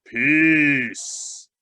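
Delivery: low voice just short of a growl. Reading a story aloud, voicing a lion calming a crowd: low, growling voice. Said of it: "in the low voice which was nearest to his growl".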